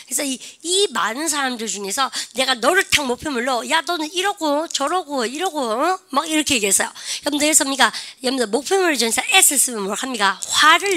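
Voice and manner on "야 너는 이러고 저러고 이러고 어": slow, higher-pitched mock scolding; mock telling-off. Teacher singles out one student to tell off, mock scolding. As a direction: act out picking on one person.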